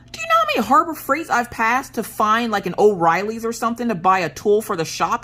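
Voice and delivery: imitating excited husband. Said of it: "So he was super excited".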